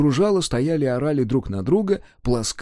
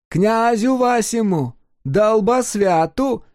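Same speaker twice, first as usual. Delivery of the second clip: higher, slow, polite foreign announcement, "Долбосвяту" rising; courteous Greek; 10 semitones higher, 4 dB louder, much slower than usual. Acted. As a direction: announce it graciously, mangling the name. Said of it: "любезно известил грек".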